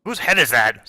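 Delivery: character asking in a fuller, firmer voice; Wet Willie. Acted. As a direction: demand an answer, at a normal pitch. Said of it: "says Wet Willie".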